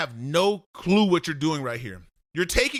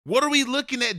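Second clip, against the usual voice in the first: "What are we looking at?" asked higher, exasperated; exasperated repeat; 5 semitones higher than usual. Shown as a demonstration. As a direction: ask again, higher and fed up. Coach repeats question louder.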